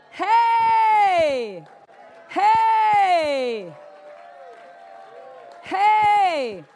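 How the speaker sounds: long loud falling "hey!"; exultant shout. Real, not acted. Preacher celebrating the crucified life, exultant shout. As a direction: whoop it out in celebration.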